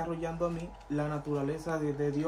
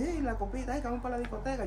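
high, sing-song coaxing of the partygoers; teasing partygoers; 7 semitones higher, faster than usual. Retold or imitated. Friends tempting the young pastor to party, high teasing coax. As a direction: lure him out with a lilting, high-pitched tease.

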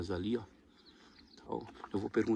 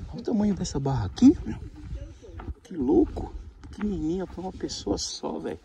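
teeth chattering; 11 semitones higher, 5 dB louder than usual. Real, not acted. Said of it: "Tô tremendo porque eu tô com frio".

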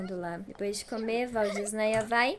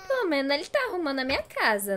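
laughing while talking; 5 semitones higher, 5 dB louder, faster than usual. Real, not acted. Laugh-crying at the ghost.

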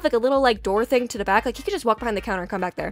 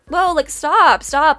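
loud, higher retold "back off"; alarmed plea; 5 semitones higher, 8 dB louder, much slower than usual. Worker trying to calm the yelling man, alarmed. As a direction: call out to halt someone, alarmed.

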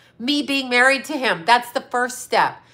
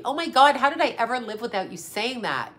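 sarcastic, gushing valley girl imitation; mock a gushing valley girl swooning over a compliment; lightly put-on valley girl gush; 2 semitones higher than usual. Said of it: "Valley girl".

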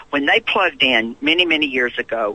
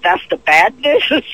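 mock dismay; 8 semitones higher, 6 dB louder, slower than usual. Mock dismay at jail cellmate.

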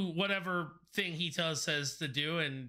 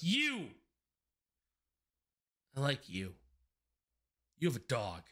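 eager tiefling; 4 semitones lower than usual. Acted. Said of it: "looks at you and goes".

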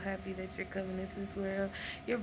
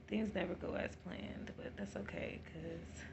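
whisper; 6 dB quieter than usual. Real, not acted. Hushed aside in labor.

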